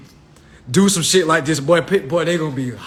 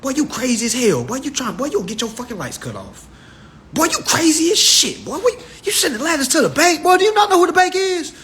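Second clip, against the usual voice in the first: fast mocking scold, rising higher at the end; scolding relatives; 4 semitones higher than usual. Relatives scolding him about no tags, fast mock scolding. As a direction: scold him like a fed-up uncle. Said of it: "My folks was the worst ones telling me".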